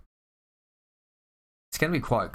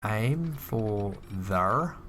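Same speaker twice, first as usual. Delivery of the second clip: pirate voice; much slower than usual. Acted. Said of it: "Why did you say that like a pirate?".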